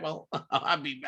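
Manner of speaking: ordinary talk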